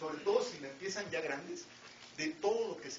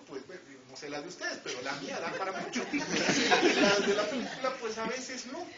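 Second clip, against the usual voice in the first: chuckling at himself; 3 semitones higher, 8 dB louder than usual. Real, not acted. Jokes about own imagination.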